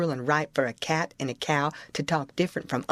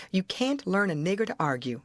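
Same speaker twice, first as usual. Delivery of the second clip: ordinary delivery, nothing marked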